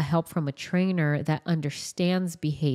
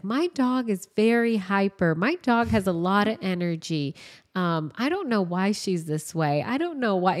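put-on higher, childlike voice for the girl; lightly voiced little girl, higher pitch; imitating a little girl; 3 semitones higher than usual. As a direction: mimic a chatty young girl worried about her dog. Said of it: "the little girl is just like".

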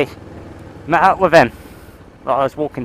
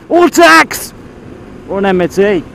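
squeaky mock outburst; 7 semitones higher, 6 dB louder than usual.

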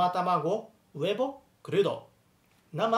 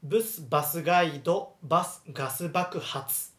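tongue twister broken into measured phrases; example reading. Shown as a demonstration. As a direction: model バスガイド and ガス爆発 with pauses between.

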